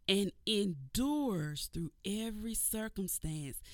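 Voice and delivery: slow, measured scripture reading. Acted. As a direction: read the verse slowly, with weight. Reads scripture slowly.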